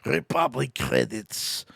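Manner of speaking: slow, lightly voiced alien trader impression; hint of Watto's accent. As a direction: try out the accent, slowly. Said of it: "how does Watto go?".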